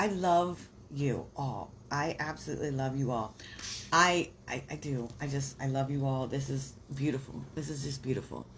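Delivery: a touch choked up, moved by the chat; heartfelt, slightly teary thanks to viewers; getting emotional. Real, not acted. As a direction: let real emotion creep into the words. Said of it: "I'm getting emotional".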